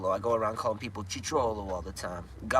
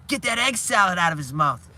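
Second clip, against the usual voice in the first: loud, raised-pitch mock shout; imitated yell; 7 semitones higher, 8 dB louder than usual. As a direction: yell it like an urgent order from a show. Retold TV line, yelled.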